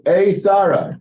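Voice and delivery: Satan calling out. Retold or imitated.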